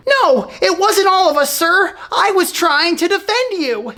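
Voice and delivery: high schoolboy protest; anxious pleading. Acted. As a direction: plead innocence to a strict teacher. Pupil pleads with angry teacher.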